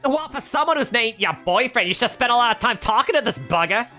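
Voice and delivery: high, loud sly teasing; smirking. Acted. Stylist needling Yancy about Nate, smirking voice. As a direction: smirk as you needle her. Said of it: "smirked the older woman".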